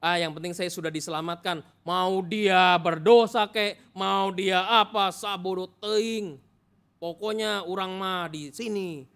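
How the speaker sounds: slow, lazy, dismissive drawl; smug indifference. Pretend. Preacher mocking a complacent Christian, slow and smug. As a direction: stretch out the words like nothing matters.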